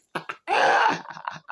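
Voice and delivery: high, mostly voiceless burst of laughter. Real, not acted. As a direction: break into a real high-pitched laugh. Laughs at end of talk.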